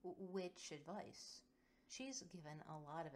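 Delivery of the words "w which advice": slow halting nervous question; nervous stammer. Acted. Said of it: "swallows at the lump".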